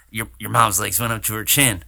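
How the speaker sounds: Swayze impression. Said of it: "It's more like a".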